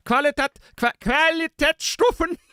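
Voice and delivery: high, drawn-out struggle with "Qualitätsstufen"; stumble, then stretch "Qualitätsstufen" in a German accent; fumbled German pronunciation. Shown as a demonstration. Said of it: "so I forget how to say things".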